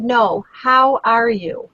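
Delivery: slow, deliberate, really asking; sincere, slow ask. Retold or imitated. To the stressed waiter, asking again, slow and sincere. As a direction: lean on how and mean it, slowly. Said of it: "And I said".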